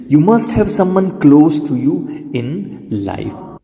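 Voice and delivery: very slow, word by word; teacher reads the full sentence slowly; slow model sentence. Shown as a demonstration. Slow drilled sentence for learners.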